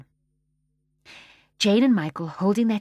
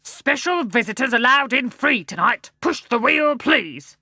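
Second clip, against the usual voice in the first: gruff bear voice; 4 semitones higher, 6 dB louder than usual. Acted. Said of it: "said a deep, gruff voice".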